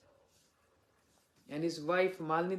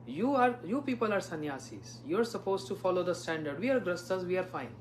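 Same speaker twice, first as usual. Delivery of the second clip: mock smug devotee. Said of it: "many devotees say".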